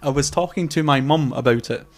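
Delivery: slowed down, each word spaced out. Shown as a demonstration. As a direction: say it carefully and slowly so listeners can follow. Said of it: "say that again a bit slower".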